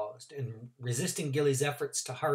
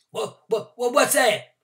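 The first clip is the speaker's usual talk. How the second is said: put-on squeaking old man; 10 semitones higher, 8 dB louder than usual. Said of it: "Mister Randolph squeaked".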